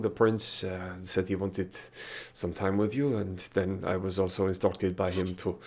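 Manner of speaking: put-on nervous French-accented servant; apologetic butler with a French lilt. GM voices Cecil, French servant.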